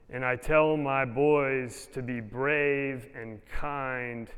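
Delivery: slow, tender poem reading. Acted. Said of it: "As I wrote".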